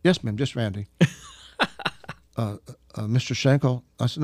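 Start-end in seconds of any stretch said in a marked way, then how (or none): 2.4-3.8 imitating a hesitant, flustered caller; embarrassed, awkward. Flustered caller offers him another title, awkwardly. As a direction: stammer into a tentative suggestion. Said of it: "so much fun with her embarrassment, awkwardness".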